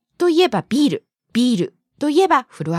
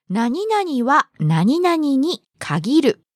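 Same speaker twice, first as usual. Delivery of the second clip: slow model phrase; much slower than usual. Shown as a demonstration. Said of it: "という意味ですが".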